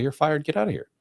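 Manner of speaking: high, mock boss firing you; hammed-up boss voice; mock angry boss. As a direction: fire him in a lightly hammed-up squeal.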